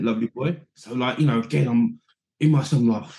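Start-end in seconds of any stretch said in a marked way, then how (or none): 0.0-0.6 lightly voiced manager answering over his shoulder; a hint of Ruud's breezy reply; imitating Ruud Gullit. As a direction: manager replying without turning round.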